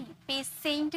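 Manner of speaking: पेशेंट drawn out with "s", pay-SENT; wrong pronunciation. Shown as a demonstration. Teacher repeats the mistake for the class, slow S pronunciation. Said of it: "स नहीं".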